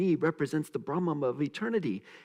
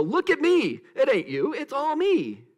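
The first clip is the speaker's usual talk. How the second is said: loud, high, boastful mock guru; a hint of a showy self-important teacher; mock arrogant teacher; 11 semitones higher, 5 dB louder than usual. Voicing a bragging teacher, a loud proud boast. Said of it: "gonna show up and go".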